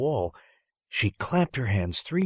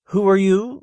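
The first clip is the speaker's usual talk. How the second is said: much higher and louder, sharp question; sharp demand; 11 semitones higher, 10 dB louder than usual. Acted. Teacher confronting a boy not on her list, sharp. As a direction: demand to know who he is.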